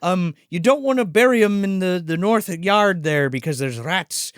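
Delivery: lightly voiced Irish groundskeeper; mock Irish accent. Groundskeeper greeting the bereaved folks, light Irish accent. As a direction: put on a light Irish lilt. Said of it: "he's doing the Irish accent".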